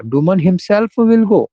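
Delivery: very slow, emphatic himself; stress on himself. Shown as a demonstration. Teacher showing how the wording changes, stressed himself. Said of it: "जोर देकर बोल रहा है".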